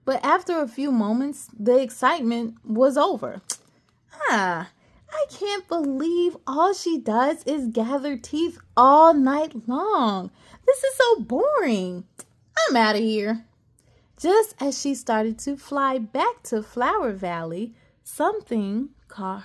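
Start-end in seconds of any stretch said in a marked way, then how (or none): 4.3-13.4 bored fairy complaint. Acted. Cassie complaining about the Tooth Fairy, bored. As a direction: whine that this is dull.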